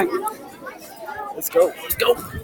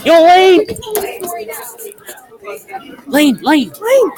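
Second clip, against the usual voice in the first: calling out; 9 semitones higher than usual. Real, not acted. Calling out to friend.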